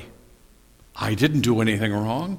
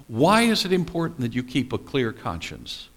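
ordinary delivery

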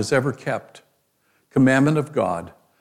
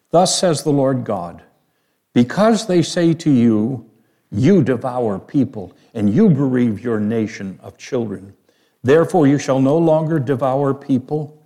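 scripture reading. Acted. Reads scripture aloud.

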